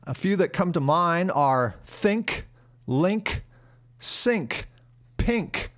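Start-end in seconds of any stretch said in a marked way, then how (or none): 1.9-5.7 "think, link, sink, pink" with an ee-like vowel. Shown as a demonstration. Teacher listing exceptions, ee sound in "think, link, sink, pink". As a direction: separate words, "pink" toward "peenk". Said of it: "some words with an I that are pronounced as E".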